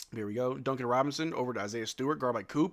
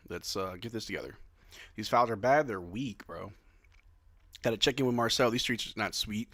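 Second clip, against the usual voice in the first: ordinary talk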